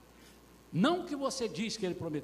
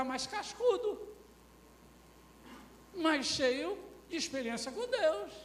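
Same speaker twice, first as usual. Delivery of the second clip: high, urgent sermon delivery; impassioned preaching; 12 semitones higher, 4 dB louder than usual. Real, not acted. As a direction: press the congregation with high-pitched questions.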